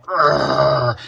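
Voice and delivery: frustrated groan. Retold or imitated. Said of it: "I was so tempted to just".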